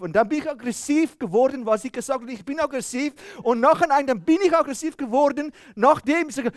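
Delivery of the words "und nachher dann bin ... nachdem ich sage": raised, higher voice, heating up; mock getting aggressive; half-acted flare of temper; retold anger. Retold heated marital argument.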